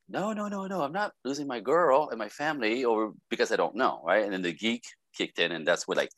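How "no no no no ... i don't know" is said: high, pleading string of refusals; acted alarm. Husband afraid of losing his family, acted alarm.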